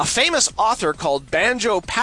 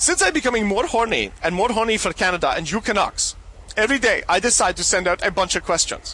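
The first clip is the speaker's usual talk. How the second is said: odd, generic, put-on European accent. Reading out a letter addressed to him, in a strange european accent. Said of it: "my sort of strange European accent I'm going to pull off".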